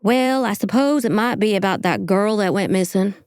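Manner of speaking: lightly Southern-sounding stab at Midwest; unconvincing Midwest accent with a Southern tinge; badly faked Midwest accent. Shown as a demonstration. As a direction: try Midwest and drift toward Southern. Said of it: "let me try it again then".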